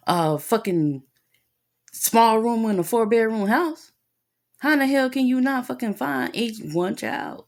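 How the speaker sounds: retold outrage, hammering each question; indignant scolding. Parent berating teacher over a son left in bathroom, indignant.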